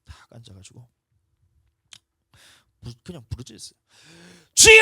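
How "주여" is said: very high, very loud desperate cry. Retold or imitated. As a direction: cry out to God at full force. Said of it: "하면서 부르짖었어요". (아주 높고 크게 절규하듯)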